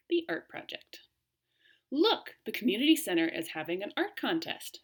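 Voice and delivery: clear, expressive read-aloud to a class; story reading to children. Acted. Teacher reading a class story aloud to children. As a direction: read the story brightly to young listeners.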